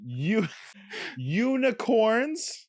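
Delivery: slow, stretched syllables; over enunciating. Shown as a demonstration. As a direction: exaggerate each syllable for lip reading. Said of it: "You have to read my lips".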